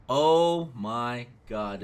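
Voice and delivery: drawn-out, slow oh my God; exasperated. Real, not acted. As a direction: let the frustration stretch it out. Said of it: "frustrated by teachers".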